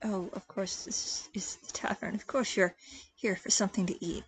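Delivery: hesitant question trailing into a soft murmur; falter, then drop very soft as if to yourself; Rhodey. Acted. Rhodey asks Cordelia about a meal, hesitant and quiet. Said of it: "he pauses, looking around, says".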